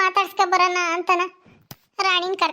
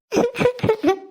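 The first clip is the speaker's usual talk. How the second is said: high acted sniffling sob; mock sobbing; 7 semitones higher than usual. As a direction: sob in short tearful bursts. Tearful woman pleading, sobs.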